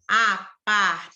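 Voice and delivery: "apartamento" broken into five distinct syllables; measured, chopped-up "apartamento". Shown as a demonstration. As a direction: separate each syllable of "apartamento" with short gaps. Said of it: "mesmo que tenha cinco".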